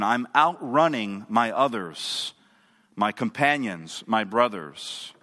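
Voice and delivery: low, slow, smug aside; self-satisfied. Acted. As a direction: savour being ahead of your companions, slowly and low. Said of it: "as in self-satisfaction".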